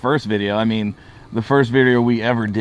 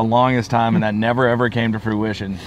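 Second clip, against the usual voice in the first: words around a cigar; speaking between cigar puffs; talking with cigar in mouth. Real, not acted. Seen 0: Left man gestures while talking, then raises cigar to mouth.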